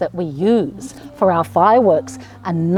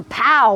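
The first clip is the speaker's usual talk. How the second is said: drawn-out pow falling away; playful firework pow. Shown as a demonstration. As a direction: imitate a firework bursting. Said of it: "what are some of those sounds".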